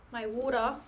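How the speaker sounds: mock Aussie accent, final r dropped in "water"; Australian accent. Streamer playfully redoing "my water" for viewers, mock Australian accent. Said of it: "My Australian water".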